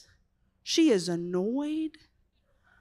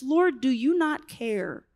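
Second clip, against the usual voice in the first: broken plea; 4 semitones lower than usual. Retold or imitated. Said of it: "She was so broken".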